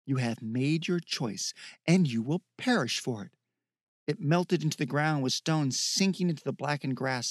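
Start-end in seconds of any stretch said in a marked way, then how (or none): 0.0-3.3 a distant evil speaking through the beast; demonic voice from the hound. Acted. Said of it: "The woman with the eyes' voice".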